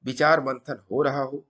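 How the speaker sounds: deliberate storytelling, pausing between phrases; moral story narration. A narrator's reading. Storyteller passing a sadhu's maxims to viewers, measured emphatic narration. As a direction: narrate like a teaching tale, punching each maxim.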